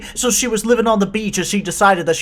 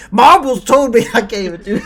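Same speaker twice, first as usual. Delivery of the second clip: put-on villain voice; 6 semitones higher, 10 dB louder than usual. Mocking a villain character.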